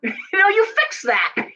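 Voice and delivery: laughing high and slow through the words. Real, not acted. Astrologer cracks up at her own Virgo quip, laughing. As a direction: let the laugh carry the line.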